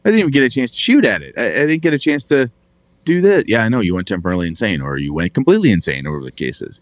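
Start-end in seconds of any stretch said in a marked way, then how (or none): 0.0-3.5 frustrated player. Acted. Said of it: "You're like".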